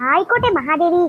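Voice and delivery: bow and scrape sarcastically to the bossy sister; sarcastic grand formal speech to elder sister; mock formal. Mock royal address to sister.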